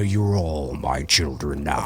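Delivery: Freddy impression. Quoting Freddy's best line in a low slow growl. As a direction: drop low and slow like a gloating demon. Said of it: "my best line".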